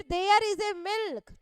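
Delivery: very slow, word by word, with a loud "There is a milk"; teacher reads the wrong sentence slowly to students; wrong example read slowly. Shown as a demonstration. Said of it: "नहीं लगाया जाता".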